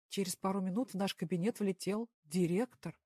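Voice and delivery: usual speaking voice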